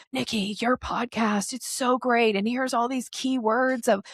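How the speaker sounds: mock gushing, pitch climbing; dog-calling energy. Pushy emailer pitching a podcast host, dog-calling energy. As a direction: lightly imitate an over-eager pitch. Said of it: "that is dog calling energy".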